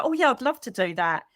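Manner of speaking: mildly bright, dutiful agreement; polite fake yes. Agreeing to a lunch invite she doesn't want, mild polite fake yes. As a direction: agree nicely while not meaning it. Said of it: "but your inside is saying".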